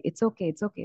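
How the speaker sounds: a gentle, hushed it's okay; soothing hush. Retold or imitated. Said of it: "మనం ఏమంటామంటే".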